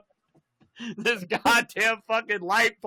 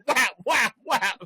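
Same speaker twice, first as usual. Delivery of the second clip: high, punchy whacking noises; imitated blows; 5 semitones higher, slower than usual. Retelling cops beating him, high imitated whacks. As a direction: punch out each mock blow.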